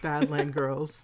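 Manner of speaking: vintage radio announcer; old-timey radio voice. Acted. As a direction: say it like a 1940s radio host. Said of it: "I said it in, like, old-timey radio voice".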